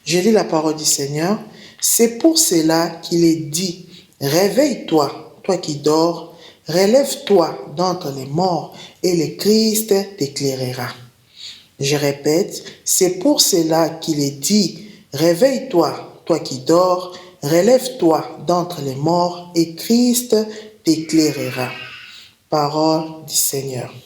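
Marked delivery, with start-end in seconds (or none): 1.8-10.9 slow, deliberate Bible verse; measured reading aloud of holy text; scripture reading. Acted. 12.9-23.9 slow, deliberate Bible verse; measured reading aloud of holy text; scripture reading. Acted.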